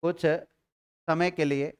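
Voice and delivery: कुछ समय के लिए stretched very slowly; slow dictation. Shown as a demonstration. Teacher repeating phrase for students, very slow. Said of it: "लिखिएगा".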